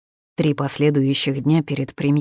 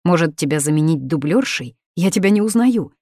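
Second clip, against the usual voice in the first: indignant father; 3 dB louder than usual. Acted. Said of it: "возмущался отец".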